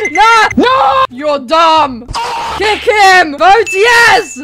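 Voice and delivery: panicking gamer. Real, not acted. Panicking in game.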